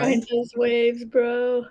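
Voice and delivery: slow surfer-dude delivery. Shown as a demonstration. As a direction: stretch it out like a surfer. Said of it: "have to sound like a surfer dude".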